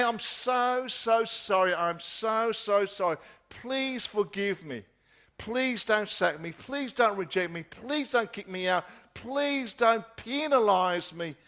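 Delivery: mildly acted begging, each please leaned on; fearful pleading. Preacher voices a wrongdoer begging not to be punished, mild fearful plea. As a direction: plead as if afraid, lightly acted. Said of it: "You cry out in fear".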